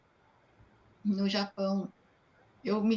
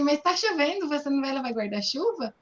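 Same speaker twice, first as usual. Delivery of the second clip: puzzled question; 4 semitones higher, 4 dB louder than usual. Retold or imitated. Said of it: "antes eu falava assim".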